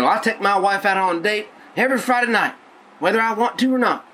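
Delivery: mock redneck voice, high and goofy; redneck husband. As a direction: play a dutiful redneck bragging about date night. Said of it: "my fictional person's a little bit redneck".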